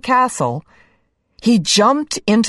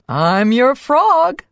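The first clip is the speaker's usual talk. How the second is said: smiling frog voice; 7 semitones higher, slower than usual. A narrator's reading. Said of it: "he smiled".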